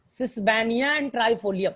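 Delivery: slow, word by word, for the class to note; slow dictation. Shown as a demonstration. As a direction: spell it out slowly for students. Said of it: "teacher dictating plant names".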